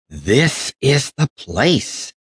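slow, drawn-out triumphant cry; excited find. Acted. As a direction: announce the discovery. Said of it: "cried Raggedy Ann".

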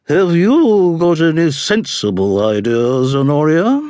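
high, imperious matron voice; haughty dowager duchess. A narrator's reading. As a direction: ask like a disdainful grande dame.

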